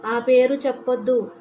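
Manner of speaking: a sharp, loud cry of warning; a possessed girl cries out to stop the name; loud shout. Acted. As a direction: shout her down hard. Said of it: "గట్టిగా అరిచింది".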